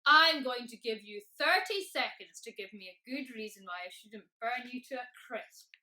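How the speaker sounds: loud, threatening dragon voice; dragon bellow. A narrator's reading. Dragon threatens Mister Tickle with burning, bellowing at the start. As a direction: open with a big bellow of threat. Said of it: "bellowed the dragon".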